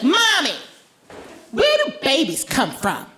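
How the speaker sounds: put-on high child's voice; lightly voiced high little girl; 1 curious little girl. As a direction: ask sweetly like a four-year-old. Daughter voiced asking.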